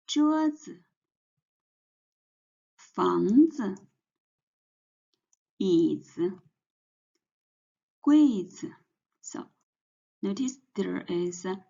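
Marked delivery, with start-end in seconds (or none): 0.1-8.7 桌子, 房子, 椅子, 柜子 each with a light, short final 子; teacher's drill of 桌子, 房子, 椅子, 柜子 with neutral-tone 子; neutral tone demo. Shown as a demonstration. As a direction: say each word apart, first syllable full, 子 unstressed. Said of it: "neutral tones, and let's do some practice".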